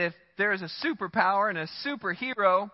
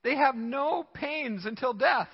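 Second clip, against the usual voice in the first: incredulous psalmist; 4 semitones higher, slower than usual. Retold or imitated. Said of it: "he says".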